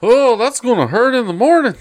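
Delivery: high, swooping announcer yell; sports game announcer. Retold or imitated. Quoting a favorite NFL Blitz line, announcer voice. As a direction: call it like an over-the-top arcade commentator. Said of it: "one of my favorite ones is N F L Blitz".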